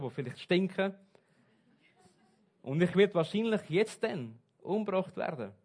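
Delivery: a moaning prisoner's list of complaints; mock complaining. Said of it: "So würde ich motzen".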